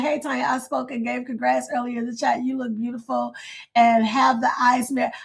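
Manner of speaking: ordinary talk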